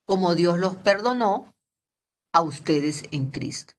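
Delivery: slow, deliberate reading of the verse; slow scripture reading. Acted. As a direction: read the Bible verse slowly and solemnly. Scripture read slowly.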